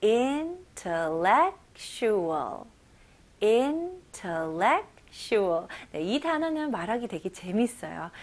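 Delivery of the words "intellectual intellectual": slow drill repeat. Shown as a demonstration. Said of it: "같이 한번 해볼까요".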